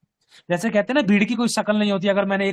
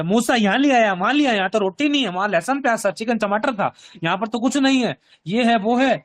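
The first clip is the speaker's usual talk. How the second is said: mock grumbling; 3 semitones higher than usual. Preacher voicing Israelites complaining about food to Moses, grumbling. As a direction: imitate a crowd's petty complaining. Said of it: "कुड़कुड़ाते थे".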